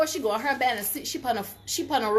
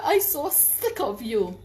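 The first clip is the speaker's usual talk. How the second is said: mock man, slow and tired of her; slow fed-up retort; slower than usual. Vlogger quoting the man, slow and fed up. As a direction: draw it out, weary and fed up. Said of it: "The man said".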